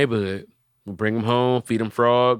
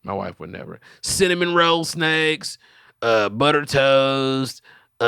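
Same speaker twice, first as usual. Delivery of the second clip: raised, hammed-up pitchman showing off his snakes; dubbed video voice; 3 semitones higher than usual. Dubbing a video for friends, proud snake-seller voice. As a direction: voice over a stranger's video like a proud salesman. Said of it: "Dubbing videos".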